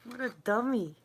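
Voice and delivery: loud laughing self-scold; laughing at herself. Real, not acted. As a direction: chuckle it out loud. Laughing at herself after bumping.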